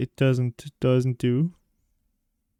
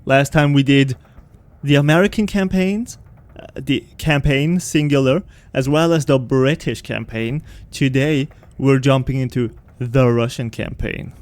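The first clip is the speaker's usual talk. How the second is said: episode intro. Acted. Gamer welcoming his viewers back in a lively host voice. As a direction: greet the viewers like a show host.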